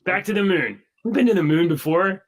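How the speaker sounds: glitchy robotic audio; robot voice over a bad line. Real, not acted. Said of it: "You sound like a robot".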